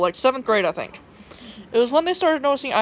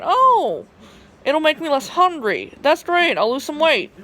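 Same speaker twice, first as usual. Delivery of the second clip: hopeful inner thought; 5 semitones higher, slower than usual. Retold or imitated. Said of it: "I'm thinking".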